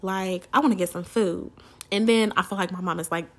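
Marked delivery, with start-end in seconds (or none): 0.0-1.5 higher, louder impatient pleading; hungry and fed up, hurry her along; exasperated hungry daughter; irritated. Retold or imitated. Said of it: "I'm getting a little irritated".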